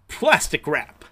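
loud triumphant announcement; showy reveal. Acted. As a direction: present it like a magic trick. Reveal of new invention.

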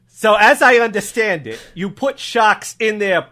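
put-on accented officer carefully restating it; deliberate improv cop summing up; puzzled cop. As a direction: reason it out as a local cop. Cop questions shark hunters.

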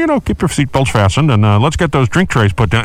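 lightly voiced pilot over the intercom; a hint of a captain's cabin announcement; airplane captain announcement. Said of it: "they do".

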